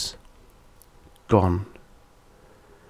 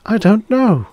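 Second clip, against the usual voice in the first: high, helpless admission; louder, exasperated confession; voice admitting; 13 semitones higher, 5 dB louder than usual. A narrator's reading. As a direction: pitch leaps up in a baffled plea. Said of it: "the voice admitted".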